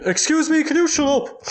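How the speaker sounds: high, snippy shush; hammed-up rude hush; telling the crying daughter to shut up, high; mock rude shush. Voicing rude mourner.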